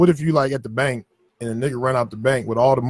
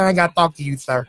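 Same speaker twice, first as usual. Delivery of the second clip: childlike, naive imitation; kid voice. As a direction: sound like a clueless kid. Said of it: "I gotta sound like a kid".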